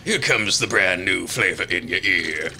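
smooth ad read that snaps into a yell; announcer voice. Acted. Ad voice breaking into shout.

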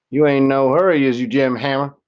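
a mildly voiced old woman teasing a visitor. A narrator's reading. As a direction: speak up high and sharp as a tiny tough old woman.

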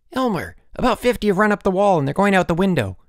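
high, loud alarmed report; urgent calling. A narrator's reading. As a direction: shout the news urgently. Boy reports escaping ants.

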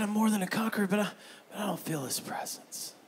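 hushed, unsure restatement; quiet repeat. Acted. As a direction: let the bold claim shrink. Same line repeated quietly.

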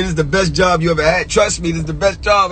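high, insistent imitation of boosters; mock job hype. Rookie mimicking coworkers praising the job, mock hype.

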